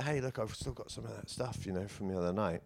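a quiet, offhand take on his own voice; understated self-impression; impression of himself. Shown as a demonstration. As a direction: mumble it like you're offering it casually. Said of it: "Me doing an impression of me".

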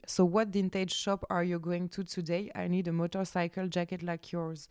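put-on English in a French accent. Retelling his message to viewers in French-accented English. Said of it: "mon magnifique accent".

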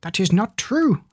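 clucking scream. Acted. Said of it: "Alice screamed".

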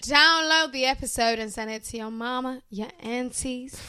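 mock American hip-hop accent; lightly put-on accent. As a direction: slip into a playful borrowed accent. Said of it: "don't know why I've got this accent".

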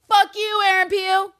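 high, loud full-voice outburst; angry shout. Real, not acted. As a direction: yell it at a hated villain. Outburst at hated character.

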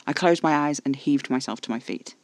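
ordinary delivery, nothing marked

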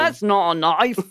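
mock Aussie accent on a catchphrase; Australian accent. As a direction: put on a broad Australian accent. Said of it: "Shelley's accent".

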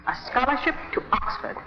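tempting, secretive whisper. Acted. Teacher whispers to the squire to tempt him, breathy whisper.

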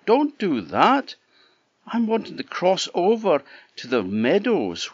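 high, pleading little goat; bleating like a ram. Acted. Small goat pleads with troll.

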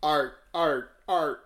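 "art" yelped like a seal, leaping high and loud; seal bark. Pretend. Playing the co-host's pet seal, high barking.

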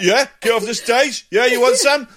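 loud, high combative retort; mock comeback. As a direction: square up to the heckler. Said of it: "And you're like".

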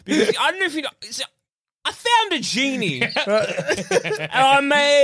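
pompous CEO voice. Pretend. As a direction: proudly spin a tall tale. CEO explains his genie wishes.

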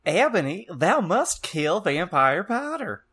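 high, slow, wailing villain voice; hammed-up high-pitched dark lord; Voldemort. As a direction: draw out the archaic command theatrically. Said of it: "Voldemort yelled".

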